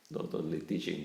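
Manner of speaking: breathy chuckle through the words; laughing. Real, not acted. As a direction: laugh while you say it. Chuckling at own irony.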